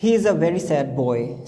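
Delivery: put-on a teacher dictating slowly to a child; slow example sentence. Shown as a demonstration. Teacher slowly reading an English example sentence to a child. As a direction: read each word slowly and clearly. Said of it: "सैड।".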